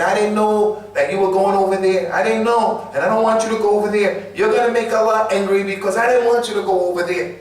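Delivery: pleading mother. Retold or imitated. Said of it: "And his mother was saying".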